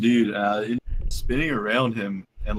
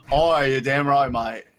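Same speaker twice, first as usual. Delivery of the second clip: put-on Australian accent; 2 semitones higher, 4 dB louder, slower than usual. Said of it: "I haven't practiced that accent in a while".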